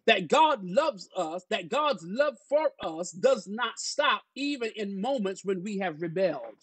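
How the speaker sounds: measured, emphatic sermon delivery; preaching. Real, not acted. Pastor laying out a lesson to the congregation, preaching. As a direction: preach the point in drawn-out stresses.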